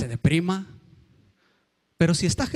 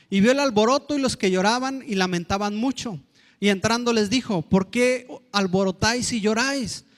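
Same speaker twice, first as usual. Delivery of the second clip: raised, solemn Bible reading voice; scripture reading; 3 semitones higher than usual. Acted. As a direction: proclaim the verses to the congregation. Reads Mark 5 scripture. (lectura de la Biblia, alzada y solemne)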